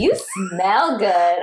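slow creepy delivery; creepy version. Retold or imitated. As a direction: draw it out slowly like a creep. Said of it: "but if it's like".

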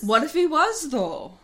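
exaggerated Minnesotan sing-song; Minnesota accent. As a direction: tease it out in a put-on Minnesota accent. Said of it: "to do that accent".

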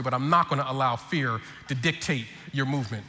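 low, measured father's lecture; intent fatherly talk. Retold or imitated. Pastor dad solemnly counsels his scared son, intent fatherly talk. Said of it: "I look at him real intently in the eye".

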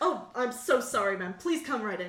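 loud, eager-to-please bouncer; flustered apology. Acted. Bouncer realizing he stopped a famous star, flustered and apologetic. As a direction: fall over yourself apologizing.

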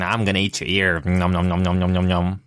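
Mike Tyson. Acted. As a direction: do a terrible celebrity boxer impression. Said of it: "like, the worst impression".

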